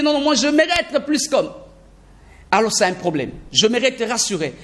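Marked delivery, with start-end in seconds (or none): 0.0-1.5 insistent learner. Retold or imitated. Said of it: "Il veut se dire".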